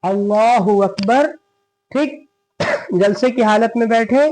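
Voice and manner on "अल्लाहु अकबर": slow takbir rising; prayer cadence; takbir recited. Shown as a demonstration. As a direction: draw out the takbir. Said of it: "फिर हम लोग उठेंगे".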